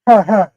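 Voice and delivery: "Her, her" with the R stretched into two beats; mock Memphis R. Shown as a demonstration. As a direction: double up the R in "Her". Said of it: "You say it twice".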